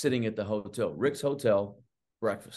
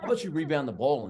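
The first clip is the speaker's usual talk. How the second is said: higher-pitched mocking coach voice; mock coach retort; 6 semitones higher, faster than usual. Assistant mimicking the coach brushing off a player's demand, higher mocking voice. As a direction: toss it back like a sarcastic coach.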